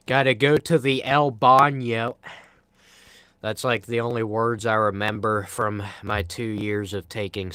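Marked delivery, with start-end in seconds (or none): 0.1-2.2 hammed-up bad Spanish accent on El Baño; mock Spanish accent. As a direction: toss off El Baño in a goofy fake Spanish accent. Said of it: "that was a horrible accent".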